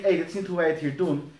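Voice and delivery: quick scolding "hé, hey, dit is niet hoe wij het hier doen", brisk; snappy rebuke. Shown as a demonstration. Leader scolding a lax volunteer, quick and sharp. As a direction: rattle off a reproach. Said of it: "Dan zeg je niet".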